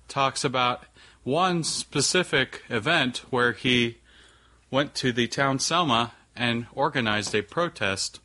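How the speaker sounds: lightly robotic flat monotone; a hint of a robot reading it out. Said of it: "I'm saying this in a robotic voice".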